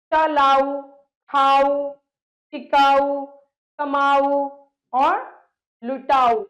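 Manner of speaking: teacher stressing the ending आऊ; loud emphatic word list. Shown as a demonstration. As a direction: recite each word loudly for the class. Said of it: "आओ की ध्वनि आ रही है".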